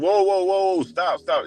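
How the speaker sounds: high, urgent whoa and stop, imitating a rapper; retold panicked stop call, pitched high; mock alarmed halt. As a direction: yelp it out high to stop him at once. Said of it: "and then Puff said".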